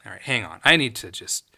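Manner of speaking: low, soft wind-down after a rant; calming down. Real, not acted. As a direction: drop it right down to collect yourself. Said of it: "take a chill pill".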